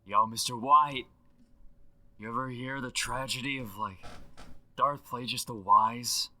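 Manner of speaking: Aaron Paul impression left on a voicemail; slangy dude leaving a phone message; voicemail effect. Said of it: "With the voicemail effect".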